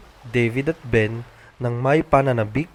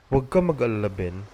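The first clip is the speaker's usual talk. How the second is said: calm. Acted. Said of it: "kalmadong saad ni Pa".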